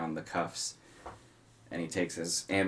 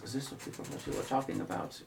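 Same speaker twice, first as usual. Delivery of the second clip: whispering aside; 6 semitones higher, 7 dB quieter, faster than usual. Acted. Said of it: "whispers to him".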